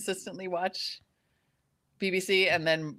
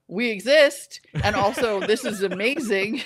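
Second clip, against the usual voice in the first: louder, higher, gleeful announcement; acted delight; 6 semitones higher, 6 dB louder than usual. Voicing Black Scottish people answering Americans, mock overjoyed. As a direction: proclaim it with amused delight.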